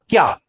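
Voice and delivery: क्या as a single short falling syllable; one breath stroke. Shown as a demonstration. Teacher answering how it was pronounced, क्या in one stroke. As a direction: run क and या together in one quick क्या. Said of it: "श्वास के एक आघात में उच्चारण हुआ".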